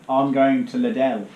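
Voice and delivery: "Liddell" with an added L sound at the end, said slowly; Bristolian L on Lidl. Shown as a demonstration. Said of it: "put an L on everything".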